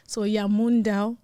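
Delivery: name said in a West African accent, Yamun Dao slow and clear. Shown as a demonstration. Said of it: "with the African accent".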